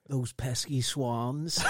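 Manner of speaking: slow drawn-out villain grumble; cartoon villain line. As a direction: growl it like a foiled crook. Jokey villain catchphrase.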